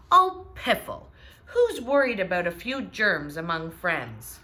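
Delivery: scoffing, carefree piffle; dismissive Papa. Acted. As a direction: brush off the fuss about germs. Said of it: "said Papa".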